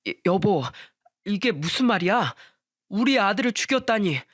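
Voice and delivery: mildly stunned, stammered question; shocked husband. A narrator's reading. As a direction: stumble into a disbelieving question. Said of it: "놀란 목소리로 물었습니다". (살짝 놀라 더듬는 남편 목소리)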